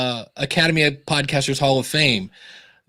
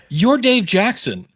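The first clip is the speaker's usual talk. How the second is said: higher, slow emphatic retelling; imitated insistence; 6 semitones higher, slower than usual. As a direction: spell it out like an awed friend. Friend insists on his renown.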